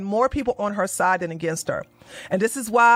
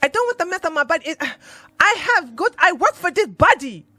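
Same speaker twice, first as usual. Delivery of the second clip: mocking her whine; 7 semitones higher than usual. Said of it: "And she said".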